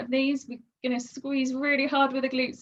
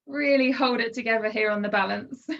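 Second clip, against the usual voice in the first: slightly wobbly, strained shaky voice. Real, not acted. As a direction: voice trembling from holding a balance. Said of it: "you can hear my voice shaking".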